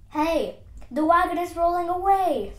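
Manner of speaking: loud, high call of alarm; alarmed shout. Acted. Warning Dog Man that the wagon is rolling away, alarmed shout. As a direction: shout a warning across the yard.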